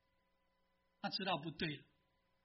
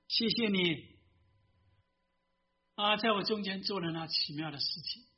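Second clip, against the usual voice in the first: prayer. Acted. Leads congregation in prayer. (低声祷告的语气)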